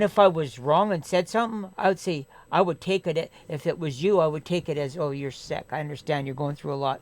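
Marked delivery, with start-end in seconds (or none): 5.0-7.0 softer, easygoing reassurance; understanding, apologetic. Pretend. How he'd answer a sick friend, calm apology. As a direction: talk a friend down gently.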